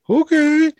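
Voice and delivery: put-on high, drawn-out childlike okay; little kid voice. Mail carrier imitating customer's goodbye, little-kid voice. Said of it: "almost like a little kid".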